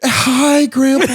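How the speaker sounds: put-on high sing-song baby talk; patronizing old-people voice; condescending elder talk. Mocking talking down to grandpa.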